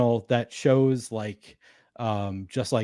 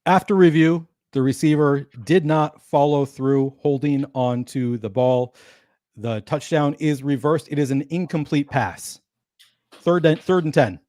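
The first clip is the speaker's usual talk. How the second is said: referee announcement; 3 dB louder than usual. Pretend. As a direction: announce the overturned call like a stadium ref. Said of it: "the speaker must give an impression of an N F L referee announcing".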